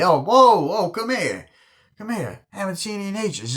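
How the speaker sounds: high whoop, starting loud then easing; retold boisterous greeting.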